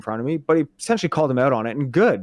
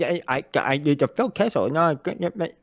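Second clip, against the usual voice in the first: lightly voiced whiny player; a hint of a mumbling hockey player; Phil Kessel impression; 3 semitones higher than usual. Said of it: "That's a pretty good impression".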